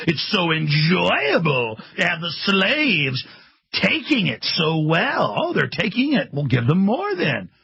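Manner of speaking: slow, laughing mock-tyrant voice; gloating elite. Host voicing the elite mocking the public, slow and gloating. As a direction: savour each word like a smug overlord. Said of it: "That's the attitude".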